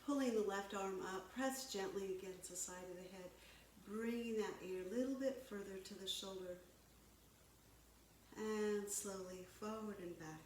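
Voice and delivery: calm, measured yoga-teacher delivery; guided yoga. Real, not acted. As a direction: guide them through breath and stretch, unhurried pauses between cues. Leads stretching exercises.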